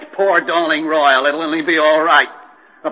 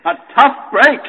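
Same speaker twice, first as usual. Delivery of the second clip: usual speaking voice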